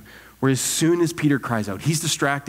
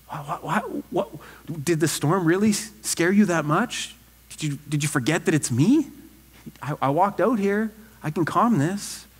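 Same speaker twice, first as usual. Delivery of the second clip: stammering, higher-pitched gentle incredulity; Jesus; 3 semitones higher than usual. Acted. Preacher imagining Jesus asking Peter about the storm, kindly incredulous. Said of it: "imagine a smile on his face".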